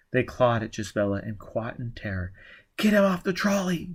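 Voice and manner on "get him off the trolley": yelled order. Acted. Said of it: "Gisbella yelled".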